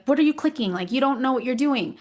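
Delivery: mock impatient child snapping at mom; frustrated kid. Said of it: "he was getting frustrated with me".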